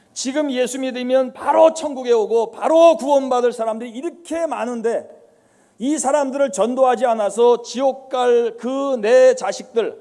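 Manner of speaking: anguished realization. Retold or imitated. Father's sudden realization, pleading.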